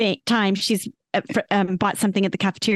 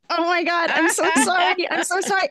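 retold apology; 9 semitones higher than usual. Mom apologizing to upset daughter, retold.

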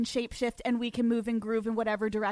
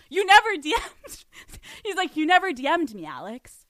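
surprised denial; 3 semitones higher, 4 dB louder than usual. Retold or imitated. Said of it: "And he's like".

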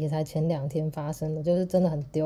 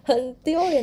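very high squeal of laughter into much higher, louder "so embarrassing"; 9 semitones higher, 5 dB louder than usual. Real, not acted. Admitting she never paid the card fee, squealing laugh. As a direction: shriek with mortified laughter.

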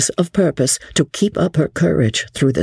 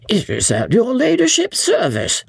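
higher, deferential innkeeper voice; bow and serve, hiding surprise; 11 semitones higher than usual. A narrator's reading. Innkeeper Jellyband answers her ladyship, deferential. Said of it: "said honest Jellyband".

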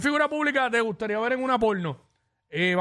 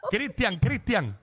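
stifled giggles; 4 semitones higher, slower than usual. Real, not acted. Stifled laughter calling the name.

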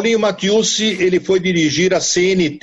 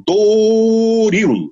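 drawn-out, sung announcer call of Doril; booming ad voice, long vowels; radio ad announcer; 4 semitones higher, 3 dB louder than usual. Shown as a demonstration. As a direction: stretch Doril like a radio jingle. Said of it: "Faz pra gente aí o jeito que você fazia o Doril".

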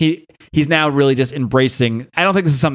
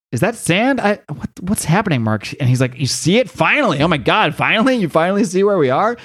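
startled excitement; 5 semitones higher than usual. Acted. Gina and Mark see the sand.

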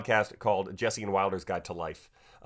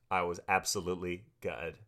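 attempted British accent; 3 semitones lower, 3 dB quieter than usual. Shown as a demonstration. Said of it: "stopped doing the accent".

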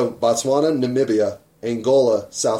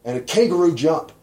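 high, loud burst on Boom; playful shout; 6 semitones higher, 4 dB louder, slower than usual. Pretend. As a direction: jump out with a big Boom. Acting out kangaroo jump.

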